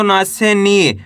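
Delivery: long falling ee in नी; drawn-out syllable. Shown as a demonstration. Teacher showing how ना becomes नी, vowel stretched. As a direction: hold the vowel of नी. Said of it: "खींच के इसका उच्चारण करना है".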